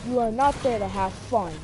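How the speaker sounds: teacher yelling at me; firm mock yell; retold yelling. Teacher scolding the student, yelling. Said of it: "she just starts yelling".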